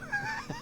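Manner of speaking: short high nervous giggle; nervous laugh. Real, not acted. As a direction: laugh off the question. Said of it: "The nervous laughter as he avoids it".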